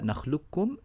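نخلقكم as "nakhlukkum"; doubled k in نخلقكم, no q; القاف merged into الكاف. Shown as a demonstration. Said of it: "القاف مع الكاف". (إدغام القاف في الكاف في "نخلقكم")

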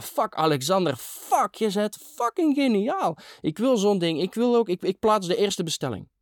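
very high, euphoric cry; ecstatic raving. A narrator's reading. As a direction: gush wildly at the top of the register. Ecstatic raving about son's invention.

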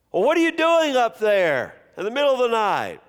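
lightly voiced king, indignant; demanding king. A narrator's reading.

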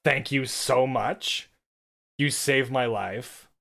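slow, heartfelt thanks; grateful thanks. Retold or imitated. Thanking the stranger who closed the door, slow and heartfelt. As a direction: draw out the gratitude. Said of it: "And I'm like".

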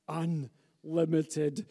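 slow, drawn-out sinister villain line; slow menacing movie-villain growl; Star Wars villain impression. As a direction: stretch it out like a gloating space emperor. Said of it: "that's a Star Wars reference".

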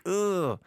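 short high-pitched ugh; exasperated groan. Retold or imitated. Retold groan at bad radio.

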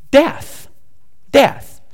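breathy high whisper of the word death; spooky whisper. Acted. Pastor spooking the congregation about ravens, whispered. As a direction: whisper it like a ghost story.

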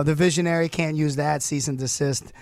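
ordinary delivery

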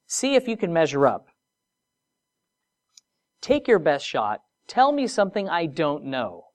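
a lightly voiced confident God daring them; God's challenge. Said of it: "And God says".

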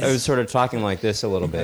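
mildly odd talk, minding the lip; weird mouth. Shown as a demonstration. Answering how he was talking after the splash, weird mouth. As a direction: demonstrate talking a bit weird. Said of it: "How are you talking".

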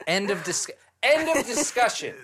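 rising to a loud playful yell; mock shout. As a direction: shout it to end the argument. Mock-forbidding friend from seeing.

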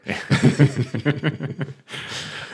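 loud high burst of laughter; big laugh. Real, not acted. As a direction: crack up at the joke. Laughs at the grammar joke.

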